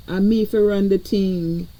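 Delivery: light Jamaican patois lilt; playful touch of Jamaican patois; Jamaican accent. Pretend. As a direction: slip briefly into a Jamaican accent. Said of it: "where the Jamaican accent come from".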